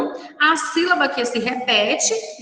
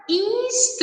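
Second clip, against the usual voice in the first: syllable by syllable; 8 semitones higher, 4 dB quieter, faster than usual. Shown as a demonstration. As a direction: sound out "instrução" in long, even syllables. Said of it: "na separação de sílabas".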